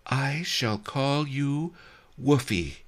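put-on high, slow, cooing girlish voice landing on Woofy; coy Lotus Cloud. A narrator's reading. Lotus Cloud names her new admirer, in a high coo. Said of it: "she said".

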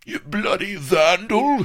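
high, loud cursing; outraged cry. A narrator's reading. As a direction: shriek abuse at the culprit. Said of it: "he cried".

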